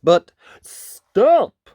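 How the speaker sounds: loud, high command to halt; full-voiced, drawn-out halt; deafening call. Wolf halting the attack, in a deafening voice. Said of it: "in a deafening voice".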